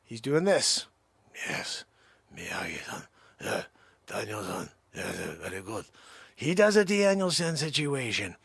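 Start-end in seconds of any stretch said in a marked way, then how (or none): 1.5-5.8 low unvoiced whisper; hushed whisper of a sensei's name. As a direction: breathe the name reverently. Whispered retold exchange.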